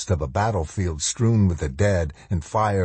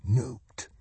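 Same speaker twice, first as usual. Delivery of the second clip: softer, dazed murmur; stunned whisper; 5 semitones higher, 6 dB quieter than usual. A narrator's reading. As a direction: let it fade in shock. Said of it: "he thought".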